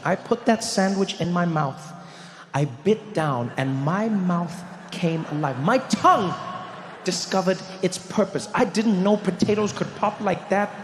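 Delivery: slow, dramatic build from hushed awe to excitement; mock-epic wonder. Storyteller reliving the first bite of curry, slow building awe.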